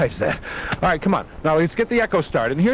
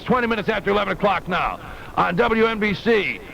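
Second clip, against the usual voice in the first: a touch of a rough, chomping deejay voice, pitched higher; big-time deejay read; 5 semitones higher than usual. Shown as a demonstration. Demo for listeners of a big-time deejay time check, rough and a little higher. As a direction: show how a big-time deejay reads the time, with a bit of chomp. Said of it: "it goes something like this".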